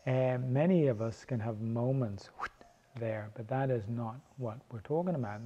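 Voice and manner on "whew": quick whew sound effect; a very brief airy whoosh; imitated whoosh. Shown as a demonstration. Telling students of brief focused moments, quick whoosh.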